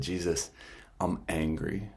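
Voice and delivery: soft, hushed admission of anger; quiet confession. Retold or imitated. Priest kneeling before Jesus, quietly admitting his anger.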